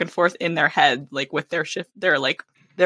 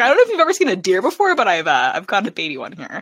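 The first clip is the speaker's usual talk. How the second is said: mock mansplainer; faster than usual. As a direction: play an overeager mansplainer, lightly. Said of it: "he's mansplaining wildlife to her".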